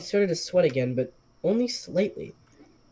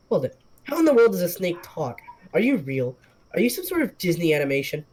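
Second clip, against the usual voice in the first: bewildered questions; 2 semitones higher than usual. Acted. Stunned man quizzes the talking snake, fast and rising. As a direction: rattle them off in disbelief.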